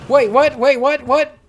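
high loud wait what; panicked high questioning; shocked disbelief. Real, not acted. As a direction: yell it in disbelief. Shocked at game event.

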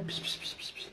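soft unvoiced psst-psst to settle a cat; hushing psst. Real, not acted. Owner hushing her cats to keep them calm, soft unvoiced psst. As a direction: hiss the hush gently, no voice.

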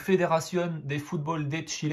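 French speaker attempting Spanish; shaky attempt at a Spanish accent; rough Spanish accent. Real, not acted. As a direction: read the name in clumsy Spanish. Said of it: "Excusez-moi pour mon accent".

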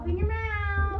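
high, slow, bossy order; loud command. Real, not acted. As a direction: boss him into it loudly. Forcing the sour spray.

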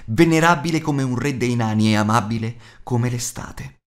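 ordinary delivery

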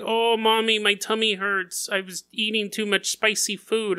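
hammed-up tummy-ache whine; mock whiny kid. Voicing kids complaining to mom.

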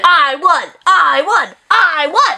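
rising sing-song gloat; a touch of a playground chant. Real, not acted. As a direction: crow about winning to your sister.

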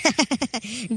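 soft, rapid chuckle; henchman chuckle. Acted. Henchman to his boss, soft obliging chuckle. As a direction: chuckle quietly in quick bursts.

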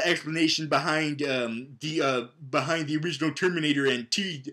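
ordinary talk, nothing marked

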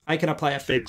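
processed mic effect switched on; effected voice through the mixer. Shown as a demonstration.

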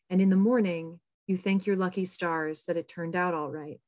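measured poetry reading with pauses between phrases; poem reading. Acted. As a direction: read your poem aloud, letting each line fall at its end. Reads own poem aloud.

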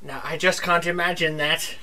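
low, deflated admission of failure; dejected defeat. Acted. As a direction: crestfallen and apologetic. Hero gives up, calls himself pathetic.

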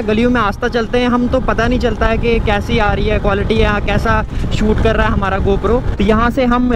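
loud running commentary while riding; talking over wind. Real, not acted. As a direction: speak up so the helmet mic catches you at speed.

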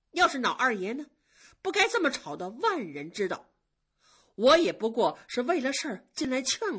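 put-on older maid scolding a younger one; reproachful senior maid. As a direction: call her out, hurt but controlled. Senior maid confronting quarreling girl.

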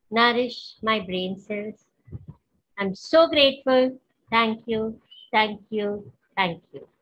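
slow, devoted affirmation read for the class to repeat; guided affirmation. Acted. Meditation teacher has the class repeat after her, slow devoted affirmation. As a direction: lead the group through it slowly and lovingly.

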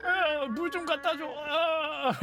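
slow groaning plea from a man with a bad hangover; a lightly voiced hungover guy moaning for water. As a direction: drag it out like you can barely lift your head. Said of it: "숙취가 쩌는 아저씨".

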